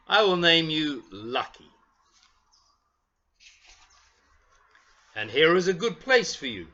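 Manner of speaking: a hint of a proud craftsman admiring his work; kindly toy maker. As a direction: narrator reads the toy maker to children, lightly voiced. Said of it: "And the toy maker says".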